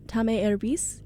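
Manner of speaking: tá mé erbís tried out with a questioning rise; a learner testing the Irish phrase; learner's Irish attempt. Shown as a demonstration. Host trying out Irish, unsure and rising. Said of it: "Am I saying that correctly?".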